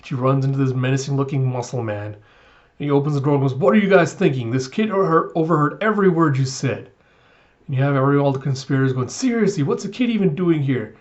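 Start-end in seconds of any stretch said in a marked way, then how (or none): 3.5-6.9 mildly heated, pitched-up reprimand; a touch of angry disbelief; exasperated scolding. Retold or imitated. Muscle man berates plotters because a kid overheard, mild anger. 9.1-10.9 higher-pitched, mildly alarmed disbelief; a touch of flustered surprise; mock incredulity. Plotters discover a kid in their hideout, mildly incredulous.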